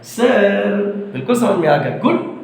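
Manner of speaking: lightly voiced eager pupil, high on good; Dhirendra imitated. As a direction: mimic a keen student saying he got it. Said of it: "वो ऐसे बोलता है". (धीरेंद्र की हल्की नकल, good पर ऊँची आवाज़)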